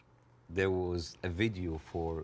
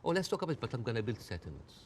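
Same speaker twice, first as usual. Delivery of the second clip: passive-aggressive. Acted. Guest mimicking two-faced peace talk, passive-aggressive. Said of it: "like, passive aggressiveness happening".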